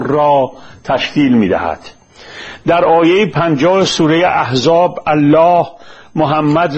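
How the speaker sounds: measured, formal reading of a prepared text; formal lecture-script delivery; formal read-aloud. Acted. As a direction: read it out deliberately in careful literary Persian.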